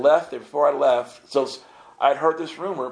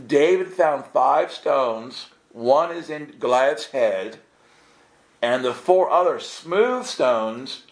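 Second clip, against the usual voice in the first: pointed explanation; slower than usual. Retold or imitated. Spelling it out to rock collectors.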